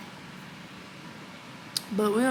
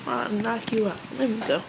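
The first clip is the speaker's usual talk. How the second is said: being tickled; 4 dB quieter than usual. Real, not acted. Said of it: "Stop tickling me".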